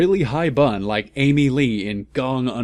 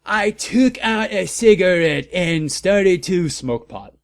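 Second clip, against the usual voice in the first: hammed-up read; 7 semitones higher, 4 dB louder than usual. Hammed-up reading.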